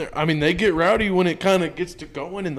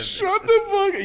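high, drawn-out mock Middle Eastern accent; laughing, pitched-up Middle Eastern accent; much slower than usual. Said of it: "Middle Eastern there".

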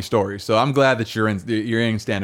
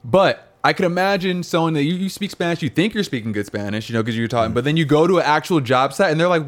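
ordinary delivery

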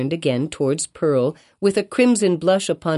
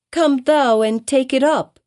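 put-on higher, defiant child voice; child's reply; 8 semitones higher, 3 dB louder than usual. A narrator's reading. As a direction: answer back like a stubborn little girl. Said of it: "answered Pearl".

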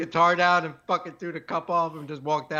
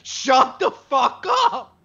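much higher, slow yell through laughter; laughing mock shout; 12 semitones higher, 5 dB louder, much slower than usual. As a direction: bellow it while cracking up. Acting out shouted heckle laughing.

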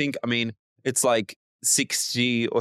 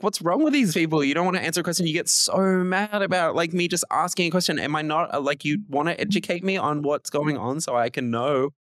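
higher-pitched retold questioner, lightly voiced; imitating Bill Maher; 5 semitones higher than usual. Host retells Bill Maher questioning believers, lightly higher voice. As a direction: lightly play the calm, insistent interviewer. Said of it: "and he's like".

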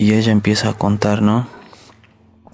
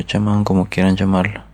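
ordinary talk, nothing marked

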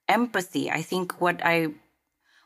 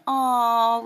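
gushing, higher and louder aww; cooing over a cute video; 6 semitones higher, 5 dB louder than usual. Retold or imitated. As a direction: coo like you're watching a baby video.

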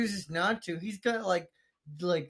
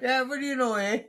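put-on Canadian accent; 3 semitones higher than usual. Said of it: "I'm Canadian, boys".

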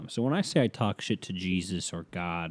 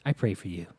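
imitating ex-girlfriend; 4 dB quieter than usual. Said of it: "ex-girlfriend that used to say that".

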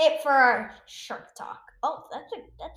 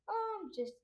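starfish imitation; faster than usual. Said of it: "I'm doing another imitation".

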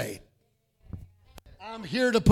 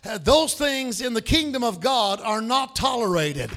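preaching. Acted. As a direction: preach it with full force. Preaching at full force.

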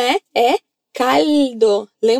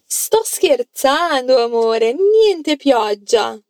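slow model sentence; slower than usual. Shown as a demonstration. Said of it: "fala pra mim a frase".

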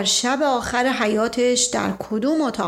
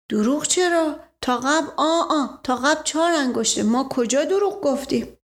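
lightly voiced servant, a little higher in pitch, protesting; humble servant; 3 semitones higher than usual. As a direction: protest as the simple servant under questioning. (صدای کمی زیرِ نوکرِ معترض)

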